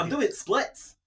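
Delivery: high-pitched comic presenter; Keith Lemon impression. Clowning for laughing co-host, high comic impression. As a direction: lift it into a silly boast. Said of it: "Keith Lemon".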